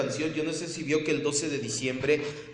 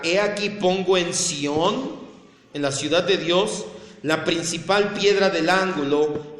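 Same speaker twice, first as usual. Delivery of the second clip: measured, emphatic reading of scripture; 2 semitones higher, 4 dB louder than usual. Acted. Pastor reads Peter to the congregation, emphatic scripture reading. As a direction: read it out firmly to the congregation.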